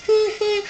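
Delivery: high, quiet mocking tee-hee; mocking high giggle. Mocking Kate's smug giggle at Flo.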